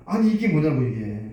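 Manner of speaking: startled wife. Acted. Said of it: "그 아내도 놀랍니다".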